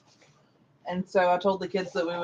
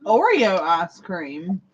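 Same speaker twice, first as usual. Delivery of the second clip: slow, savoring; 2 semitones lower, 3 dB louder, slower than usual. Real, not acted. Mock-savors a flavor name.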